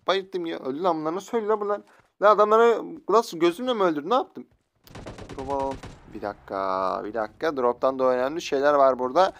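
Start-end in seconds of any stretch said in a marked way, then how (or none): 1.1-4.5 amazed. Real, not acted. Amazed at his own kills.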